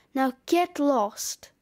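lightly voiced gruff snowman, slow; a slow, mildly gruff brush-off; gruff dismissal. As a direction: send them off slowly, a touch gruff. Snowman orders the children out.

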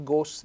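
"gos" with a closed O; closed accent. Shown as a demonstration. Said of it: "l'accento chiuso".

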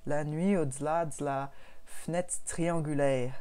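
slow, drawn-out mock Québécois accent; a self-mocking bad Québécois accent, slowly. Shown as a demonstration. Podcaster hams a bad Québécois accent for her co-host. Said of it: "Je vais vous faire un mauvais accent québécois".

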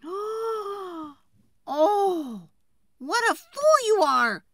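high, loud, outraged wife yelling; furious shout. Acted. Wife yelling at the woodcutter over the sausage, furious high shout. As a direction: scream it at your foolish husband. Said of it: "shouted the woodcutter's wife".

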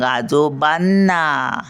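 "आजोबांना," slow, with "बां" lifted and held; बां उचलून. Shown as a demonstration. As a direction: lean into the nasal "बां" of "आजोबांना,". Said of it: "बाला आपण उचलून धरतो". ("आजोबांना," मधला बां लांबवून)

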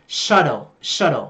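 American "shuttle" with a flapped t, like a d; American accent. Shown as a demonstration. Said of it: "Giọng Mỹ thì là".

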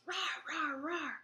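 high, playful mock roar; dragon roar. Singer plays shouting dragon for babies, dragon roar. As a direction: roar like a small dragon without real volume. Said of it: "The dragon in the wagon shouts".

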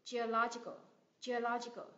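"Geological" as geo-LO-gi-cal; teacher's model of "geological", stress on LO; stress on third-last syllable. Shown as a demonstration. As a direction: lean on LO in "geological". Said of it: "cái cách nhấn âm trong những cái từ này".

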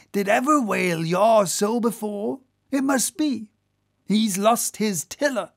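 a touch of comic alarm from a boat officer; Stubb the whaler. Acted. Whaler to boys about a whale with stomach ache, lively exclaiming. Voices a story figure.

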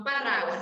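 parraguas with a strong trilled rr; wrong rolled r. Shown as a demonstration. Teacher shows children the wrong strong r in parraguas. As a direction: roll the rr hard in parraguas. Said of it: "no parraguas".

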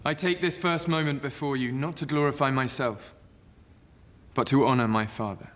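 formal senate oration; roman orator. Acted. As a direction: address the senators with gravity. Octavian addresses the senate.

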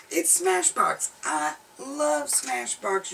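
gushing. Real, not acted. Gushing about favourite brand.

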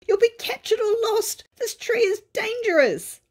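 little creature calling a warning; brownie voice. A narrator's reading. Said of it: "yelled the brownies".

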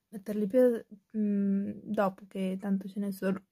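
hiccuping between words; with hiccups. Real, not acted. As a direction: talk through the hiccups. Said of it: "scusate il singhiozzo".

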